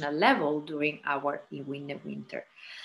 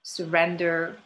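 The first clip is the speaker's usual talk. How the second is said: guided relaxation. Acted. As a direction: let each phrase settle, unhurried, easing them into rest. Begins guiding the yoga nidra.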